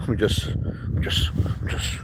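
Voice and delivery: soft whispered mock mumbling; mimicked fighters. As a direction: imitate them under your breath, voiceless. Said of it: "They're always like".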